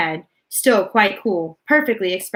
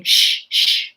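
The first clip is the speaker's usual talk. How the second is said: whispered shushing. A narrator's reading. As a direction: keep hushing them. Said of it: "who kept saying".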